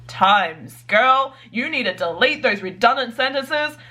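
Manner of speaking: sassy self-scolding, rising to a laugh; scolding self-talk. Retold or imitated. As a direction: tell yourself off with sass. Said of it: "I'm like".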